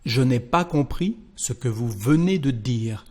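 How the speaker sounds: je n'ai pas compris read fully; French model sentence. Shown as a demonstration. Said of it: "the second sentence".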